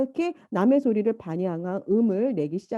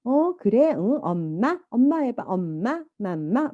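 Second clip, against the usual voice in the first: mother coaxing; 2 semitones higher, slower than usual. Retold or imitated. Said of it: "이제 엄마가 그러죠".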